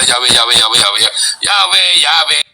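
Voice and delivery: lightly imitating lecturers, Yahweh repeated with a mocking twist. Retelling how his lecturers joked about the name, mild mocking imitation. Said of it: "ngomongnya sambil mencong-mencong".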